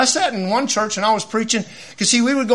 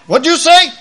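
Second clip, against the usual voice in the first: surprised; 9 semitones higher, 7 dB louder than usual. Retold or imitated. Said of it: "he goes".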